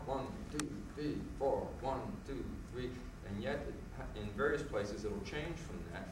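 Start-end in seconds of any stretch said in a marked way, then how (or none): 0.0-2.9 counting in four. Shown as a demonstration. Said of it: "it marches along in four".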